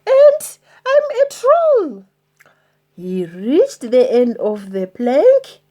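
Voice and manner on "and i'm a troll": high unvoiced tiny whisper. Troll admitting who he is, whispered. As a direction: barely breathe it out.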